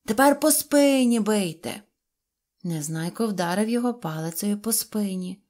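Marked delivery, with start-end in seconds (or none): 0.0-1.8 higher, louder eager order; eager command. Acted. Karasik offering his back to Neznaiko, eager loud order. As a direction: push him on brightly. Karasik urging more blows.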